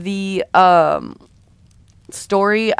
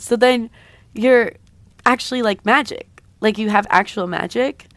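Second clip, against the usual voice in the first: amazed disbelief; 3 semitones higher than usual. Acted. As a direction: ask in dawning wonder. Character amazed by discovering magic.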